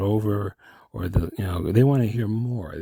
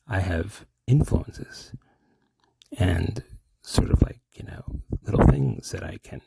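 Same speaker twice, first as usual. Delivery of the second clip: mystery man. Acted. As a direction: draw the words out mysteriously. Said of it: "you're turning into the mystery man".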